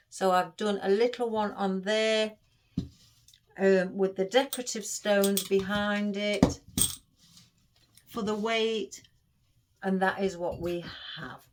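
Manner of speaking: talking while chewing gum; words round a wad of gum. Real, not acted. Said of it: "sorry if I'm chewing gum again".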